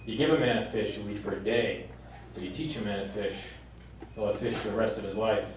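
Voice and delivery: low, soft fatherly counsel; hushed, low-pitched acted sage advice; imparting life lessons. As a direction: share quiet wisdom with a son. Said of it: "He's trying to impart life lessons".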